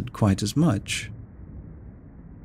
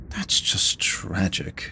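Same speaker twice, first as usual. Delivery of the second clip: mock whispered pity; 4 dB quieter, slower than usual.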